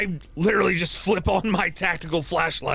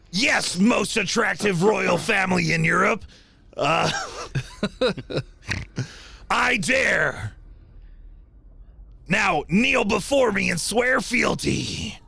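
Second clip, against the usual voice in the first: dark lord. Acted. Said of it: "I say".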